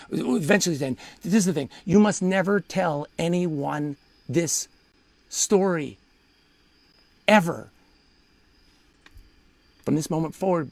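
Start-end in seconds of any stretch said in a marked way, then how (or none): 1.8-10.7 very slow warning with long pauses; slow, deliberate. Retold or imitated. Wife forbidding him to retell the story, slow and deliberate. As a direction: spell it out slowly, word by word. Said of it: "Why do you speak so slowly?".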